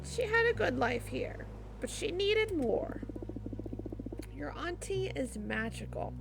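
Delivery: unhurried storybook telling; gently paced bedtime-story read; storyteller. Acted. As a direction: tell the children a magical family tale. Voices a parent telling a story.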